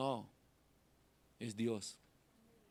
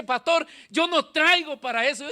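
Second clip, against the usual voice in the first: reluctant believer; 11 semitones higher, 13 dB louder than usual. Retold or imitated. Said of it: "alguien me dice".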